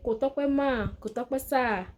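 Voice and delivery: "Kò tọ́pẹ́" with a respectful "mà" or "sà" at the end; polite Yoruba phrase. Shown as a demonstration. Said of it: "In the polite way".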